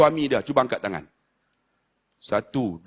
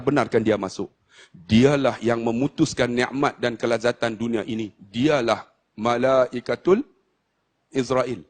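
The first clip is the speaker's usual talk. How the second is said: lower, very slow and grave; solemn dying Prophet; 6 semitones lower, slower than usual. Acted. Prophet telling Fatimah to let the angel in, solemn. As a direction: let the weight of death sink in slowly.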